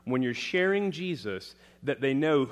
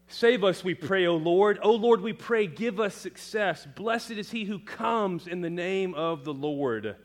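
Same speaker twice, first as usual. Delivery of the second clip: higher, louder, fervent cry of praise; fervent psalm reading; 6 semitones higher, 3 dB louder than usual. Acted. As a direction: call it out as a prayer of praise. Reads Psalm aloud with fervour.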